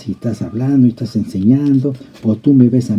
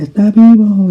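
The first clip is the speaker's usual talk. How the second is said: shouted high and loud; street preacher shout; 9 semitones higher, 7 dB louder than usual. Retold or imitated. Preacher in the plaza calling the crowd, loud shout. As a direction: cry it out across the plaza. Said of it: "y gritaba".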